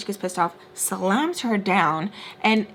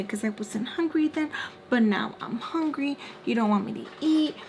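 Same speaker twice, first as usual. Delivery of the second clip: higher-pitched mock complaint; whiny excuse; 4 semitones higher than usual. Daughter claiming she is hungry now, mock complaining. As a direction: mimic a daughter's predictable protest.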